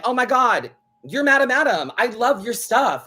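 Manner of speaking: gushing fan imitation. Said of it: "they were like".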